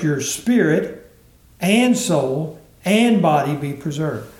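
slow, "and soul and body" with each "and" leaned on; stress on the ands. Shown as a demonstration. Preacher rereading the verse to the congregation, weighted ands. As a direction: give every "and" its weight, slowly. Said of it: "that emphasis is put in this verse".

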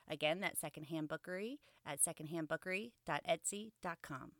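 bright sponsor read, evenly paced; podcast ad read. Acted. Host reading the sponsor spot to listeners, upbeat ad read.

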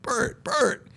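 high, ringing call across the field; spotting an old teammate after the game, calling out his name high; calling out to a friend. Retold or imitated. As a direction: hail your old roommate from a distance, pitched high. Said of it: "and I said".

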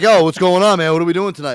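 loud and eager, as the cheese-eating friend; friend's voice. Retold or imitated. Imitating his friend barging in asking about tonight, hyped voice. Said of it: "he's like".

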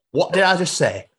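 high, indignant Yorkshire challenge; Yorkshire boss. Acted. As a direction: demand it quickly in Yorkshire. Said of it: "has been built in Yorkshire".

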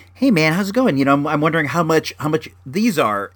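nice sweet guy. Retold or imitated. Buyer asking the seller for a price, nice sweet guy. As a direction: ask sweetly, keep it friendly. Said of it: "my nice sweet guy voice".

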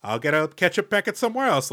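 mock-cool concession; playing it cool. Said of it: "play it cool and be like".

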